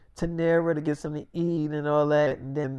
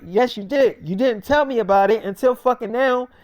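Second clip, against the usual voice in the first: higher, insistent acted retort; angry accusation; 5 semitones higher, 3 dB louder than usual. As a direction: throw the blame straight back. Acted quarrel, accusing friend.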